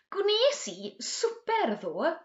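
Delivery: slow, careful model sentence, Gwnes lifted high; slow drill model. Shown as a demonstration. Teacher models the sentence slowly for the class to copy. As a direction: spell it out slowly for learners to repeat. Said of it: "model sentence for repetition drill".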